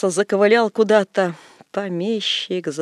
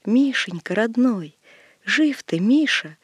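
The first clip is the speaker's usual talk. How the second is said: put-on tearful old woman; 4 semitones higher than usual. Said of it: "заплакала".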